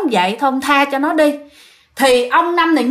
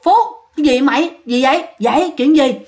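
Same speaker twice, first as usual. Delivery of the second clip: gọi giật; 2 semitones higher than usual. Retold or imitated. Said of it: "ông ngoại mới kêu".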